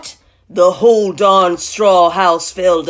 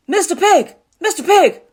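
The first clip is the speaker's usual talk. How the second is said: high, punchy call to a neighbor; 11 semitones higher, 5 dB louder than usual. Acted. Wolf calling at the brick house, high call. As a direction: holler up at the house. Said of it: "I called".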